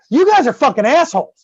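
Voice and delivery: playfully offended; mock indignation. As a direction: voice a cheated pet's disgust. Voices the raccoon's indignant look.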